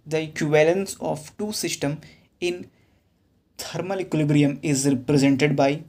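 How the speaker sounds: reads the question word by word, very slow; slow question reading. Acted. Teacher reading an exam question to students, slow dictation. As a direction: dictate the question slowly so students can follow.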